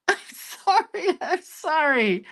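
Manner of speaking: high, slow whiny sorry; hammed-up high apology; mock apology. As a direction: plead sorry in a squeaky put-on voice. Mock apologetic whine after messing up.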